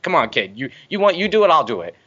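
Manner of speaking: put-on coaxing the kid. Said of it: "he was like".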